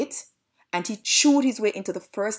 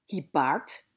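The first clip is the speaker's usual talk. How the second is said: ordinary delivery, nothing marked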